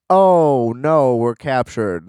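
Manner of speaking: loud hammed-up cry of alarm, then slow; lampooning the heroes' fake peril, a hammed-up loud wail; mock captured hero. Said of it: "So it's like".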